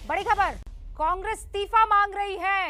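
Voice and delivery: brisk breaking-news anchor read over music; formal TV news delivery. Acted. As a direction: announce the headline like a bulletin.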